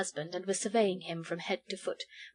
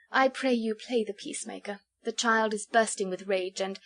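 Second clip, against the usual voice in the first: gentle sweet voice. Acted. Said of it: "gentle, sweet, musical voice".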